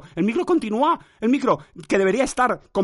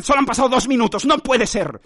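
high, louder disbelieving complaint; disbelief; 7 semitones higher, 4 dB louder than usual. Real, not acted. To the mic, disbelieving the clock, high and loud. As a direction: protest that time won't move.

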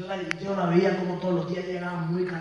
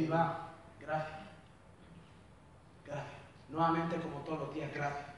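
emotional thanks; 6 semitones lower, 9 dB quieter than usual. Real, not acted. Emotional thanks, soft and low.

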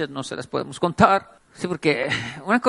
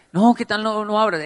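worried pleading; 4 semitones higher, 3 dB louder than usual. Retold or imitated. Friend still scared of door.

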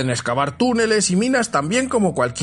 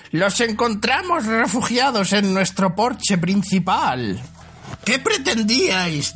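goblin voice; 4 semitones higher, slower than usual. Acted. Goblins speaking in story.

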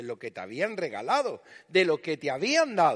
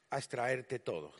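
susurro; 7 semitones lower, 8 dB quieter than usual. Real, not acted. Sermón, efecto de vampirizar.

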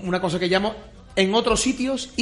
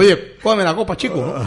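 mock Cuban accent; 5 dB louder than usual. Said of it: "en Cuba".

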